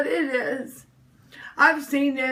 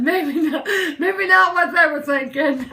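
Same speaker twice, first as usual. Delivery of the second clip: laughing through the words at her own joke; laughing at herself; 2 semitones higher than usual. Real, not acted. To livestream viewers, laughing at herself. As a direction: giggle it out, self-mocking.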